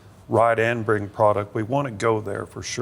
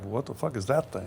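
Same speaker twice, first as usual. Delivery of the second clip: imitating a friend's South African accent; quick South African accent impression; 6 dB quieter than usual. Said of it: "Southern African accent".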